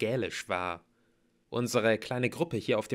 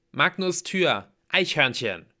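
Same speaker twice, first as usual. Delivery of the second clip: loud, high, deliberate words; urgent alert; 6 semitones higher, 7 dB louder than usual. A narrator's reading. T J directs half-troll to the door, loudly. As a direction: call out orders word by word.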